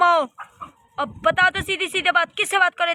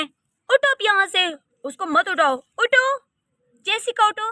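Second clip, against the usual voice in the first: high, raised command उठो; sharp order; 4 semitones higher, slower than usual. Acted. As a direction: bark it at the servant. Wife orders maid to get up.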